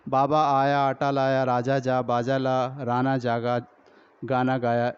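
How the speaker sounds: even, level read-through of drill sentences; fluent reading aloud. Shown as a demonstration. Teacher demonstrating fluent reading for children, even sing-along-free drill. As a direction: read each short phrase straight through, evenly. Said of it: "रवां चल रहा है".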